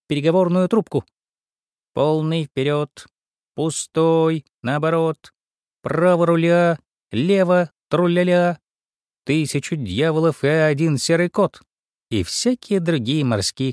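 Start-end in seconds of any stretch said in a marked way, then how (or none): 1.9-11.6 mock sea captain. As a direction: bark orders into the speaking tube. Mouse plays captain. (мышь изображает капитана)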